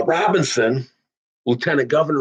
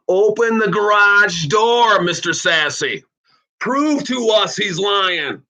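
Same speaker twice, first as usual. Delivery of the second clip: challenging shout; 5 semitones higher, slower than usual. Real, not acted. Challenging senator to show proof.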